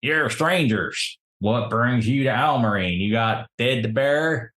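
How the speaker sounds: lightly voiced old rustic local; old townsman. Old man to strangers arriving in Almarine, lightly voiced rustic. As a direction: question newcomers as a small-town old man. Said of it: "this guy looks over at you and says".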